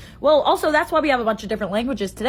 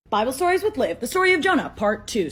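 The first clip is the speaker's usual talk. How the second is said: announcer title. Acted.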